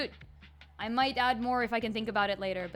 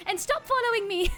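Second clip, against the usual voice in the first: high, loud mock-British princess; comically indignant princess in a British accent; Zelda; 12 semitones higher, 6 dB louder than usual. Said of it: "oh, wait, it's Zelda".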